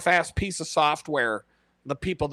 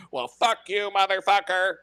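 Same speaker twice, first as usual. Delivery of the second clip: higher-pitched taunt broken by laughter; laughing mock revenge; 4 semitones higher than usual. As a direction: crack up while playing the vengeful robot. Joking Terminator revenge, laughing through it.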